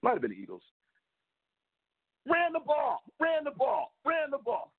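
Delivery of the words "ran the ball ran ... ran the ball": exasperated repeats. Real, not acted. Exasperated repetition of team play.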